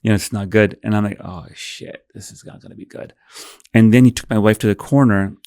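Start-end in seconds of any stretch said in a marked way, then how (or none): 1.2-3.1 breathy whisper to himself; hushed, unvoiced aside; whispered inner thought. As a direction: whisper it under your breath.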